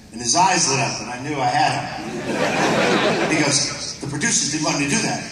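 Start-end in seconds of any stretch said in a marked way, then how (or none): 4.0-5.2 rapid-fire Shatner, words tumbling out; Shatner talking fast. Retold or imitated. Shatner telling a fan about stunts, talking fast. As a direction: rush it like an excited Shatner. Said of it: "He really talks that fast".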